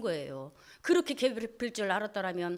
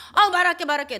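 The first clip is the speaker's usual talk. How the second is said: higher, louder hasty pleading; wife begs the knife-wielding husband, frightened; frightened placating; 6 semitones higher, 9 dB louder than usual. Retold or imitated. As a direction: plead fast to calm him.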